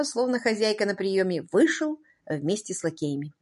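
ordinary delivery

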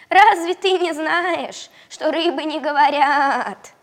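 high, loud, slow frog. Acted. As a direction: talk like a mocking frog. Frog speaks.

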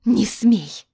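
sharp loud cry, high; shouting. Acted. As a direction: yell it to stop him. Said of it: "выкрикнула я".

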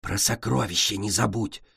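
prompting in a hushed stage whisper; quietly feed her the line; loud whisper. Acted. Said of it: "громким шёпотом подсказала Цунами".

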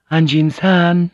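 high, slow call through a door. A narrator's reading. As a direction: call his name to summon him. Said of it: "Mariko called out".

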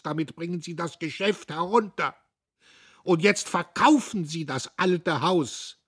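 put-on loud, high imploring old man; loud pleading old servant; pleading old clerk. A narrator's reading. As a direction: beg him like a loyal old clerk.

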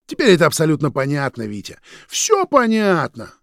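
loud, high heated verdict; angry certainty. A narrator's reading. Roman declaring everything clear, angry. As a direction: pronounce him guilty.

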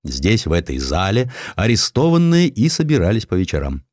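ordinary delivery

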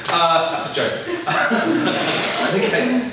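chuckling through the words; laughing. Real, not acted. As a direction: laugh it off as a joke. Jokes to audience, laughs.

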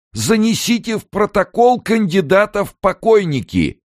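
high, loud frenzied shriek; raging. A narrator's reading. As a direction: rage out of control. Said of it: "бесновался Амерс".

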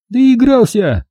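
high, mocking "told you so"; Milka, sly gloating. A narrator's reading. Milka gloating at her injured man, high and snide. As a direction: gloat over him in a high voice. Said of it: "ехидно спросила она".

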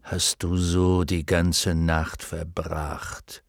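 deep, slow lion rumble; growling lion voice. Acted. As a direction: speak low like a lion. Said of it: "sagte die grollende Löwenstimme".

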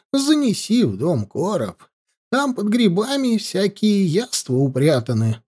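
put-on soft, trembling old voice; quavering voice. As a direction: coax along in a frail quaver. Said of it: "дребезжащим голосом".

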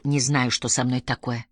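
low, soft embarrassed admission; embarrassed, forced out. A narrator's reading. Roddy admits confusion to Elinor, embarrassed and forcing it out. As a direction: squeeze the words out, subdued and uneasy. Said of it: "смутившись, выдавил".

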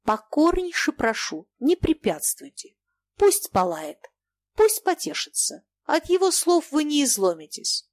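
high, creaky, coolly ominous voice; like a file scraping on iron, but calm; calm, ominous, rasping. A narrator's reading. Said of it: "как скрип подпилка по железу". (спокойный зловещий скрипучий голос)

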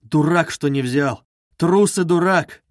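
mocking crowd. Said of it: "сами смеяться будут, скажут".

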